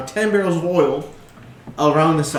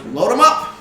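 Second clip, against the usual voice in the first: high, loud eager command; gnome giving orders; 8 semitones higher, 6 dB louder than usual. Acted. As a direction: call the order out with gusto. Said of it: "And he goes".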